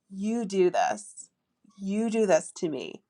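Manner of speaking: slow, with weight on do; teasing stress on "do"; coy demo line. Shown as a demonstration. To a boyfriend, slow teasing stress on "do". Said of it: "here's another thing that you can say".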